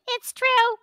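high, loud, enthusiastic chorus of agreement; mock-eager Jewish audience insisting; Jewish people agreeing. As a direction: gush it like a delighted crowd. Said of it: "and they all go".

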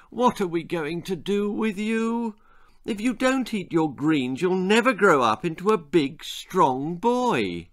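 mild worried sigh; anxious mother. Acted. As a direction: plead like a worried mum. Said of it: "sighed his poor mother".

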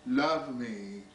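measured poetry reading with deliberate pauses; poem recitation. Acted. Poet reading to an audience about brothers loving brothers, measured recitation. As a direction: recite line by line, letting each phrase settle. Reads own poem aloud.

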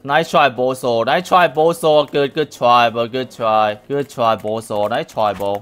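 slow, drawn-out taunt; mock-praise the loser, stretching each try. Real, not acted. Taunting an opponent in game.

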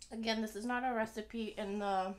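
ordinary talk, nothing marked

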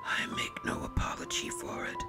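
soft, unhurried raspy whisper; calm whisper. A narrator's reading. Visitor answers the angry baron in a calm whisper. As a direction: whisper it evenly, unmoved by the outburst. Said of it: "the visitor said calmly".

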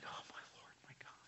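hushed, breathless whisper; awed whisper. Retold or imitated. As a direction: whisper in stunned awe. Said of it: "that same Thomas is like".

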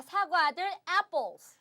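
slow model word. Shown as a demonstration. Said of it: "입 크게 벌리세요".

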